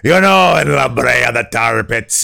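mock-dramatic yell. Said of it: "with you yelling".

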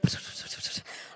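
rapid voiceless prayer mumbling; fast mock prayer gibberish; muttered praying. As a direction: imitate rattled-off Hail Marys under the breath. Mimics rapid muttered Hail Marys.

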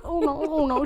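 high-pitched teasing imitation of shyness; mock shyness. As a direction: tease her with a coy little protest. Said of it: "She's all shy".

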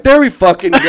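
loud, high exasperated exclamation; mock-furious yell; retold outburst. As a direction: imitate an angry coworker blowing up. Retold outburst after phone thrown down.

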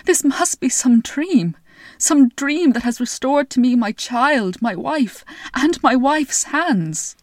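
a lightly voiced king in awe; marvelling king. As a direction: savour each restored blessing.

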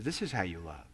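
low and hushed, barely voiced; hushed inner voice of the Spirit; soft whispered voice of God. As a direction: breathe it gently like a whisper into the heart. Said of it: "he whispers into your heart".

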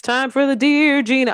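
put-on high, playful Latina president accent. Podcast host kicking off Dear Gina, playful Latina accent. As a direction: announce the segment in a hammed-up Latina accent. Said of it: "The Latina president accent really has".

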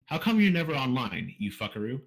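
a light stab at a character voice; Aragon. Acted. Host reads a listener's question as Aragon, lightly imitated. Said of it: "try to do this in, like, an Aragon voice".

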